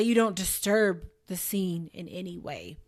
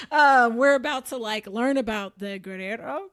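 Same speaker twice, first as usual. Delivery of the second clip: self-mocked Spanish attempt; 2 semitones higher, 6 dB louder than usual. Shown as a demonstration. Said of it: "how bad my accent is".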